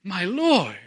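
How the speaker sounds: drawn-out, understated cry of realization; dawning recognition. Acted. Mary realizing it is Jesus, mildly awed recognition. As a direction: let recognition swell gently on each phrase. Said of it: "something clicked in her".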